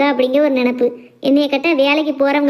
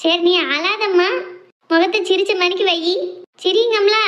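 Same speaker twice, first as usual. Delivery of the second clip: coaxing comfort; 3 semitones higher than usual. Acted. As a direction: coax a tearful mother to cheer up. Daughter consoles her crying mother.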